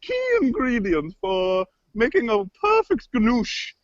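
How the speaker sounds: affected cooking-host voice; earnest, theatrical recipe teaching; kooky cook character. Acted. Cook explains ganoush to laughing co-host, kooky voice. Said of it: "something funny about the way I say ganoush".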